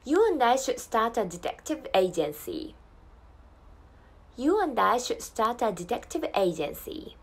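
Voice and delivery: slow Australian accent for repetition; Australian English model. Shown as a demonstration. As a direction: lead learners slowly through the Australian pronunciation. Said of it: "repeat after me".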